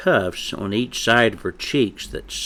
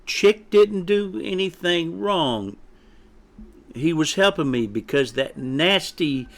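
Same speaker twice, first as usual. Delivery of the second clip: put-on higher-pitched young chick protesting; mustered courage; 7 semitones higher than usual. A narrator's reading. Chick defends friend under mother's withering gaze, bravely. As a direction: plead the friend's case bravely. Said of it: "rallied what little courage he could muster".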